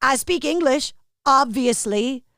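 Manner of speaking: imitated Brooklyn accent, listing deliberately; lightly hammed-up Brooklyn accent; put-on Brooklyn accent. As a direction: play a matter-of-fact Brooklyn guy. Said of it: "I'm gonna do this accent".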